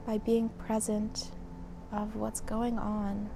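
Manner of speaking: calm, measured meditation guide with long pauses; guided meditation. Acted. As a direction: lead them gently through breath and body, leaving space between phrases. Leads a mindfulness session.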